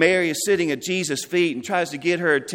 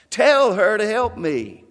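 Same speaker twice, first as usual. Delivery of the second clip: raised, insistent command; loud demand; 4 semitones higher, 4 dB louder than usual. Acted. Martha to Jesus, a raised insistent demand. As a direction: order him to make her help. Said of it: "she's getting loud about now".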